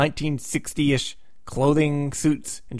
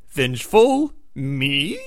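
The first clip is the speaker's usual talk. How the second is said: mock innocent villain; much slower than usual. Psycho Man to Reed, feigning innocence. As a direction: play the wounded innocent.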